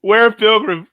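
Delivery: high-pitched, hammed-up British toff; mock British accent. Joking with co-host, silly British accent. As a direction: send up a British farewell in a high voice. Jokey British impression amid laughter.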